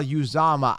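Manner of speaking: "Uzama" as "you-ZAH-ma"; mispronounced name. Shown as a demonstration. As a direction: open "Uzama" with "you" and lean on "za". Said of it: "when they call him Uzama".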